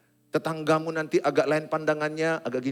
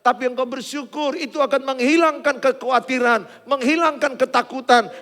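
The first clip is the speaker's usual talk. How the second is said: much higher and louder, shouted praise; full-force preaching; 14 dB louder than usual. Acted. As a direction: lift the crowd with a roaring declaration. (khotbah berapi-api dengan suara lantang)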